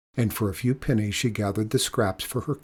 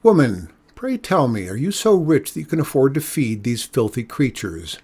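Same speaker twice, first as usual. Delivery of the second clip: calling out; 2 semitones higher, 4 dB louder than usual. Acted. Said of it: "he called again".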